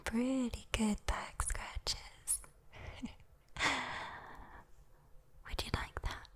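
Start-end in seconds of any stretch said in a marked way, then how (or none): 3.5-4.4 little breath of a laugh; soft teasing chuckle. Acted. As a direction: chuckle quietly, then let the breath go. Demon teasing about back scratches.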